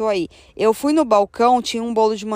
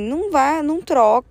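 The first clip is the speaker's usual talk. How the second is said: higher-pitched worried inner plea; mildly anxious, pitched up; retold anxious thought; 6 semitones higher than usual. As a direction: replay your silent "please don't". Retells nervous silent plea to partner.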